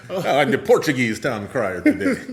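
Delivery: put-on joking, laughing Portuguese accent. Joking that the crier's accent changes, Portuguese accent. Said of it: "my accent might be different every time".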